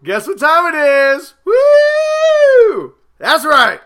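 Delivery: loud, pumped-up gym bro; gym bro hype. Acted. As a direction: hype the crowd like a meathead. Podcast hype intro, bro persona.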